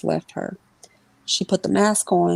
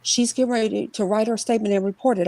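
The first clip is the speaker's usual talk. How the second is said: higher, hurried mother voice; flustered mother; 5 semitones higher than usual. Retold or imitated. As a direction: stammer it out in a rush.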